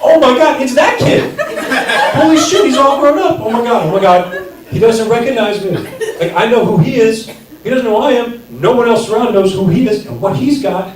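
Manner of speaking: high, loud giddy rush of excitement; squealing to himself on spotting the kid; excited inner thoughts. Retold or imitated. Comedian replaying his thoughts on seeing an old camp friend, giddy and high.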